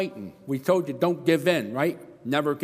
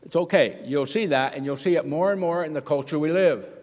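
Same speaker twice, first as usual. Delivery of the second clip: usual speaking voice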